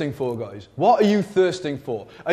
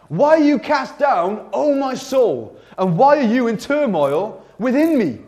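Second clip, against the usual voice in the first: raised, drawn-out challenge to oneself; self-questioning psalmist; 4 semitones higher than usual. Acted. Psalmist talking to his own soul, challenging it. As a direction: question your own soul insistently, pitched up and slow. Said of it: "He's talking to himself".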